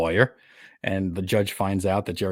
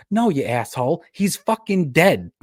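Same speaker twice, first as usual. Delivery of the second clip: high, loud mock scolding; exasperated girlfriend; 7 semitones higher, 3 dB louder, slower than usual. Girlfriend scolding him over the dead lawyer, high mock exasperation. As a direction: drag out the punchline in mock outrage.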